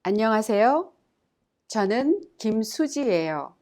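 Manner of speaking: clear, careful model sentence; model reading. Shown as a demonstration. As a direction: say it for learners to copy. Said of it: "Let's examine the dialogue".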